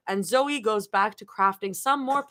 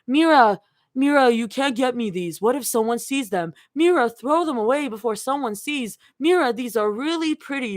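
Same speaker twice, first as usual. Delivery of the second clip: mocking imitation; 4 semitones higher than usual. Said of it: "Mira mimics Rumi's voice".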